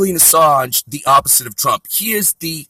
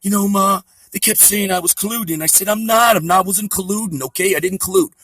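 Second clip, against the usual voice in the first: higher, defensive whining son; mock Trump whine; 4 semitones higher than usual. Trump protesting collusion to his mom, higher whine. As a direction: protest like a scolded child. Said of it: "Back to Don Trump's mom".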